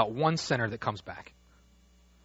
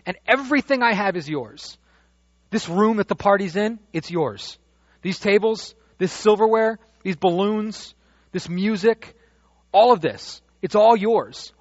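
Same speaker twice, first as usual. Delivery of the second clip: father's voice, high and louder, lavishly giving; father pleading with joy; 7 semitones higher, 6 dB louder than usual. Acted. Father tells the older son everything is his, high and loud. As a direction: pour it all out to your son.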